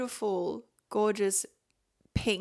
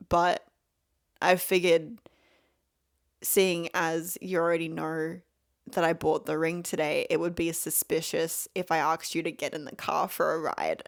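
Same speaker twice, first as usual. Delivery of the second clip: deadpan; 4 semitones lower than usual. Retold or imitated.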